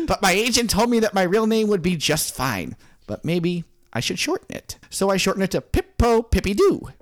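lightly voiced author holding back laughter. Author recounting his agent's advice, lightly put-on character voice. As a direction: play a famous writer telling a silly tale. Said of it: "I'm George".

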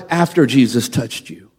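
low, quiet sarcasm on after; imagined sneer, low and hushed; sarcastic doctor. Retold or imitated. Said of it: "his attitude was like".

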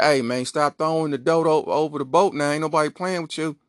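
upset cop calling through a megaphone; megaphone yell. Acted. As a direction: bellow a warning across the water. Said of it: "megaphone like".

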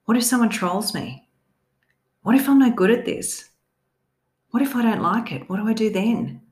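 anxious, fearful what-if questions; nervous cat. Acted. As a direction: voice the worried inner critic. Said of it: "make it sound just like that scaredy cat voice".

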